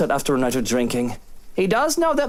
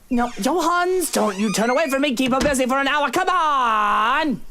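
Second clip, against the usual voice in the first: higher, urgent plea; pleading; 9 semitones higher than usual. Acted. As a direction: beg him not to leave. Pleading with the butler.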